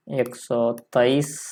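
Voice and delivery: very slow एक सौ तेईस. Shown as a demonstration. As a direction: dictate एक सौ तेईस word by word. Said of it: "Hindi में क्या लिख सकते हैं".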